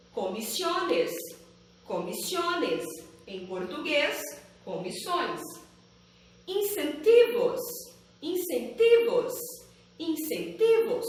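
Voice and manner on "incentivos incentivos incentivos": "incentivos" with a hard, clear ti, not chee; crisp T in "incentivos"; strong Spanish ti. Shown as a demonstration. Teacher stresses the Spanish ti syllable for learners, hard ti. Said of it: "a sílaba ti é pronunciada ... fuerte".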